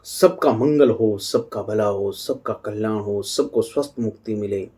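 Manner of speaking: slow, measured benediction; blessing prayer. Acted. Speaker opens by wishing well-being to all, slow prayerful blessing. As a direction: intone a blessing for everyone, slowly.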